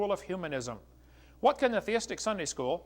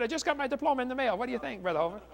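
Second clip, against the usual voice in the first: higher-pitched retelling of a friend's good news; imitated excitement; 6 semitones higher than usual. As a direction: lightly act out a friend's delight. Friend excitedly reports receiving his diploma.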